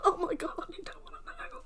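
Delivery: high words fading into breathless laughter; helpless laughter. Real, not acted. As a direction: laugh until the voice gives out. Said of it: "if you're wondering why I'm laughing".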